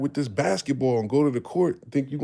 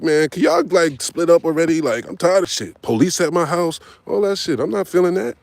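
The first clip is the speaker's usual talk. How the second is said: much louder, higher exasperated outburst; imitating a sick-of-it teenager yelling; fed-up kid; 6 semitones higher, 8 dB louder than usual. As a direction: vent at your fighting parents. Kid fed up with parents fighting.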